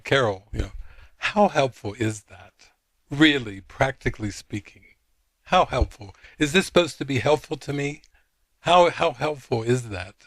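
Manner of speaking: imitated exasperation, punching the repeated questions; mildly indignant, insistent questioning; really upset. Upset friend challenging Carol on the lesson, exasperated. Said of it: "like, really upset".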